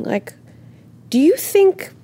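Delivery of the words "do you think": mock challenging voice. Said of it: "looking in at me and going".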